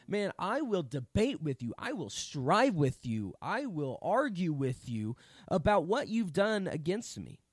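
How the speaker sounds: loud, hard-stressed preacher voicing God; forceful contention. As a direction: drive each declaration home like an argument in court. Voices God arguing his lawsuit.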